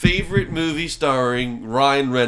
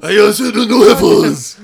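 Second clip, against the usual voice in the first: put-on Asian accent; 7 semitones higher, 9 dB louder than usual. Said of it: "did an Asian accent".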